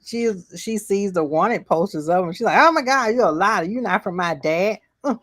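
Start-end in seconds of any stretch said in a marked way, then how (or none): 2.6-5.2 high, hammed-up panic; alarmed child. Leia seeing wanted posters of him, mock alarm. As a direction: imitate a scared kid realizing danger, pitched up.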